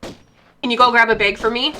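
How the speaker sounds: Midwestern "bag" sounding like "beg"; Midwestern accent. Shown as a demonstration. Demonstrating her accent, Midwestern "bag" like "beg". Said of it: "one of the accent things".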